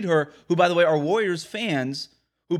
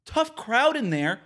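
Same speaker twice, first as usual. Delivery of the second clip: mock quote; 7 semitones higher, slower than usual. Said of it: "Andrew Wiggins replied to Bjelica".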